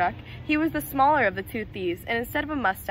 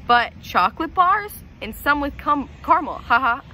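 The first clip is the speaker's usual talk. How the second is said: laughing; 3 semitones higher, 4 dB louder than usual. Acted. Mac mocking laughing.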